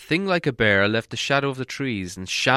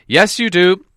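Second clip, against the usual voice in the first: Gandalf's voice; 9 semitones higher, 10 dB louder than usual. A narrator's reading. Gandalf answers firmly.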